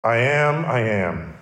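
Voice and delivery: first "I am" lifted, second "I am" falling low; weighty I am claim; solemn doubled "I am"; emphatic I am. Shown as a demonstration. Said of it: "because of his claim".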